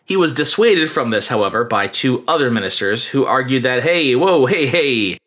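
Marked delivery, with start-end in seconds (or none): 3.8-5.2 mock-urgent interjection; lightly acted attempt to calm someone down; alarmed dissuading. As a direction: step in to halt a rash act. Ministers acted, stopping a killing.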